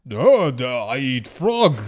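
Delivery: mock French accent from an American; American doing a French accent. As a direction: play a bad French tourist. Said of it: "now do an American doing a French accent".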